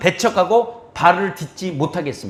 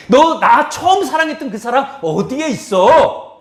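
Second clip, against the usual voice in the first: slow questioning Lord; 5 semitones higher, 4 dB louder than usual. Acted. Lord's question voiced, slow.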